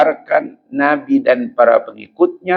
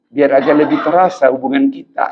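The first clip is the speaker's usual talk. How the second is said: mock tender cry. Husband's cheesy line.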